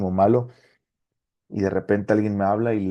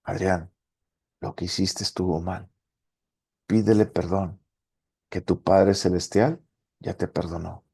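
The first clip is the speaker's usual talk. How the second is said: gentle inner voice; 2 semitones lower than usual. Retold or imitated. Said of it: "me habla y me dice".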